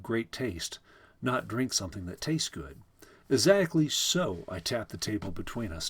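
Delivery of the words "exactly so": higher, drawn-out delight; pleased, lingering emphasis. A narrator's reading. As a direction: relish it with slow, rising pleasure.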